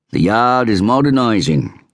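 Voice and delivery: lightly voiced inspector introducing himself; inspector's voice. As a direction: play the self-assured Scotland Yard inspector. Inspector boasting.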